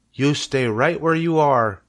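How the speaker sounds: lightly voiced stern mother; firm mother. Mother telling Fern to stay, firm. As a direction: set the rule firmly.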